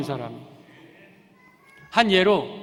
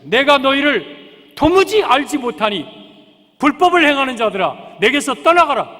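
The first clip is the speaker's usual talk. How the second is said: stern judgment; 4 semitones higher, 6 dB louder than usual. Acted. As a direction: pronounce the verdict with weight. Jesus's stern rejection voiced. (무겁고 느리게 엄하게 선포하듯)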